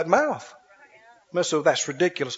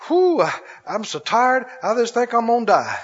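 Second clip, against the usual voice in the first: lightly voiced weary complainer, sighing; mock a tired defeatist who expects to fail; whiny complainer; 2 semitones higher than usual. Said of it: "people talk like this all the time".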